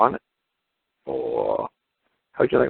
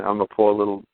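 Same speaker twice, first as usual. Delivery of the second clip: mock Indian beggar boy; 4 semitones higher than usual. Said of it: "He's saying".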